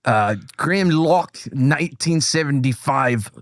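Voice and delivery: slow, put-on Scottish accent; badly faked Scottish accent; attempted Scottish accent. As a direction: read names in a laboured fake Scottish. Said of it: "so Scottish accent?".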